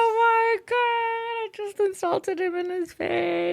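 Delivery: very high, drawn-out mock wail; retold mortified outcry. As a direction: squeal it slowly in comic horror. Retold horror at own blunder.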